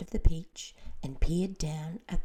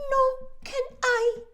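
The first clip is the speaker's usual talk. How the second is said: very high, loud wail; glowworm wailing; 11 dB louder than usual. A narrator's reading. The glowworm wails that she cannot swim either. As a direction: let it out as a lament. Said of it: "wailed the glowworm".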